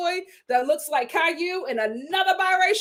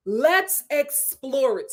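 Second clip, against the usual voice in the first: drawn-out decision; much slower than usual. Retold or imitated. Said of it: "in the editing bay like".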